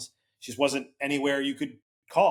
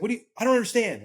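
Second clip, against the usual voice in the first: confused mom; 10 semitones higher, faster than usual. Retold or imitated. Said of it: "And she was like".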